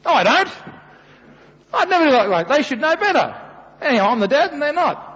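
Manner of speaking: hammed-up huffy denial; mock-indignant father brushing off his wife; defensive dad. Dad retorting to wife in story.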